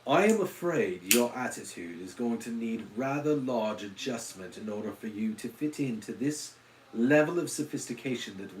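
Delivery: lightly put-on upper-class British accent; a hint of a haughty English butler scolding in a British accent; posh British accent. Lecturing a viewer about the channel in a mock posh British accent. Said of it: "like, an Upper West Side".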